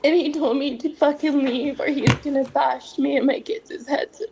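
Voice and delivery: fighting back tears mid-sentence; on the verge of crying; tearful. Real, not acted. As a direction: voice catching on tears as she recounts it. Guest recounting threats against her kids.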